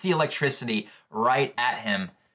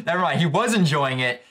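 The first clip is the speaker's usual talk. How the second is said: louder, laughing retake of "Never mind."; "Never mind." said higher with a chuckle; 3 semitones higher, 3 dB louder than usual. Real, not acted. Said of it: "laughs then repeats".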